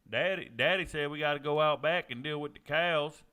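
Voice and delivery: put-on loud, playful Southern farm kid; hammed-up country voice. Streamer jokes about Georgia, loud country-boy voice. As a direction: do a rowdy backwoods Georgia kid.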